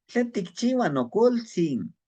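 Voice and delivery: "Tlen tikchiua no koltzin" slow and high, each syllable clear; slow Nahuatl demo. Shown as a demonstration. Teacher slowly modeling "Tlen tikchiua no koltzin" for students. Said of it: "teaching Nahuatl phrase".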